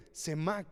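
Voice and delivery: semak stressed on the A, ending in K. Shown as a demonstration. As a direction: say semak slowly, accent on the A. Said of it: "con acento en la A".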